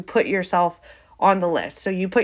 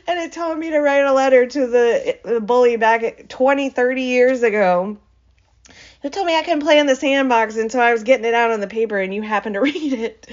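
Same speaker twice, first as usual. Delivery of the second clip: higher-pitched, hurried mock excuse; embarrassed explaining; 4 semitones higher, faster than usual. Letter writer explaining to whoever found it, mock-embarrassed. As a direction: blurt a playful excuse, a laugh near the end.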